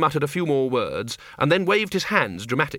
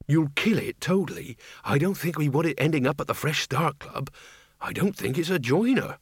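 lightly raised, altered voice; Reg Shoe's character voice; 4 semitones higher than usual. A narrator's reading. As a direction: voice an earnest comrade, a little higher. Reg Shoe speaking in story.

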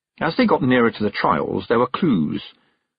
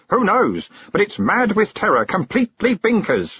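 high, fussy gentleman; pompous old man voice; 11 semitones higher than usual. Acted. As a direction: play a self-important old gent. Sensibility Bustle's memory speaks.

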